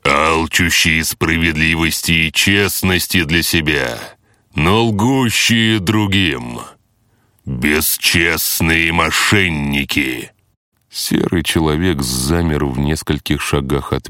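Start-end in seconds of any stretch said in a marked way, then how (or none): 0.0-10.3 slow thundering boss voice; booming voice from sky. Acted. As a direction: pronounce judgement like a wrathful god. Boss voice accusing the players.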